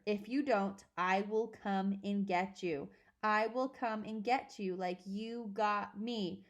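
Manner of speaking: slow, deliberate menacing ghost; slow ghostly threat. Acted. The dead father threatens Agatha, slow and menacing. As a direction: lay each word down like a haunting.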